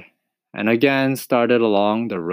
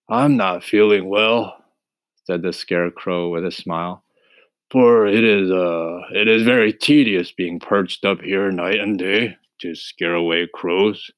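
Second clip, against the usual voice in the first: husky scarecrow. Acted. Voices the scarecrow.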